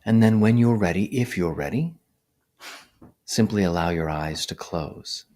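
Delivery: measured guiding voice with long pauses; guided meditation. Real, not acted. Meditation teacher settling livestream listeners into posture, calm guiding voice. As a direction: guide listeners gently, one instruction at a time.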